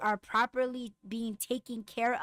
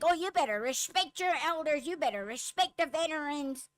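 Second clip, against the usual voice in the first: mock preachy scold, pitched higher; mocking lecture; 4 semitones higher than usual. Imitating people who scold her about veterans, mocking. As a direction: parrot the elders lecture with scorn.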